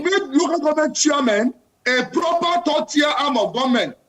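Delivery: insistent, passionate demand; impassioned. Real, not acted. Panelist pushing for local government reform, impassioned. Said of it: "I can tell from the passion in your voice".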